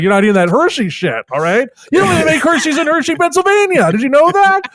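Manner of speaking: mock angry yelled facts at a kid; aggressive ranting. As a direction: rant Hershey trivia like a bully. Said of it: "aggressively yell Hershey facts at him".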